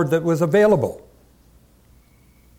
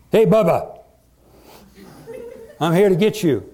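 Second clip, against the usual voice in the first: mock shout; 4 semitones higher than usual. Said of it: "David shouted".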